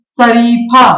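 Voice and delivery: शरीफा with the tongue toward the palate for its first sound; palatal sh. Shown as a demonstration. Teacher showing students the palatal sa, carefully enunciated palatal sh in शरीफा. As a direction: form the opening sh of शरीफा at the palate, drawn out for learners. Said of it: "तालु के संपर्क से बोला जाता है".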